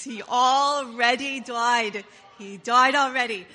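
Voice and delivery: he already died in a Jewish accent, drawn out slowly and loud. Shown as a demonstration. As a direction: say he already died with a Yiddish lilt. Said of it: "Say it with your Jewish accents".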